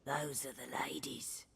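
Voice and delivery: hushed reverent whisper. Acted. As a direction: breathe it with awe.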